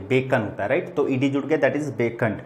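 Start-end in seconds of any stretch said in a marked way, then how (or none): 0.0-0.4 बेकन said as BEK-un, no sound for the ending; बेकन spoken plainly as the English beckoned; teacher models बेकन as two syllables. Shown as a demonstration. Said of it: "इसको हम लोग बेकन पढ़ेंगे".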